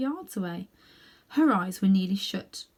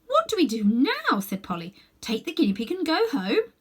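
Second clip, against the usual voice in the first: put-on worried girl voice; 7 semitones higher, 3 dB louder than usual. A narrator's reading.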